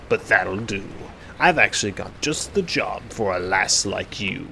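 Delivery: rough sea-dog skeleton voice; gruff pirate skeleton. Acted. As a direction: taunt her like an old sailor. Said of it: "really good job with the voices".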